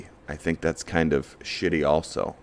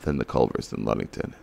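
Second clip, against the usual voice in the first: puzzled driver; 3 semitones lower, 4 dB quieter than usual. Retold or imitated. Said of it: "they're gonna flip a coin and say".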